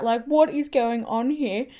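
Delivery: drawn-out, mildly panicked question; slow, bewildered retold disbelief; retold freak-out. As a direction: stretch it out, a touch of alarm. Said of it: "like, low-key freaking out".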